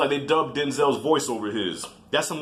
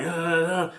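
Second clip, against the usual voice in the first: wordless mock arguing, raised pitch; higher-pitched argument noise; mimicked bickering; 4 semitones higher than usual. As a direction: imitate a muffled squabble in nonsense syllables. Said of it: "like, arguing".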